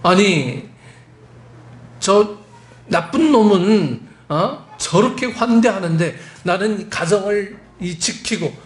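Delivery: imitated aggrieved challenge to a father; acted angry protest. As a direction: argue back like the resentful elder son. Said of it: "화를 내면서 항의합니다".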